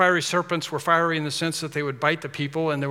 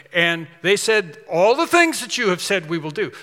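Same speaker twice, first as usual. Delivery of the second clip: louder, stern voice of God; 4 dB louder than usual. Retold or imitated. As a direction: lay down the terms as an offended God. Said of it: "shouldn't God have said".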